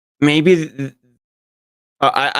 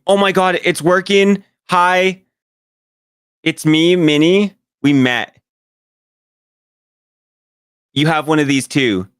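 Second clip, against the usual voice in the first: higher-pitched, eager in-character voice; excited Minnie; 6 semitones higher than usual. Acted. Minnie sending words through the magic stone, excited. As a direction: pitch it up in giddy amazement.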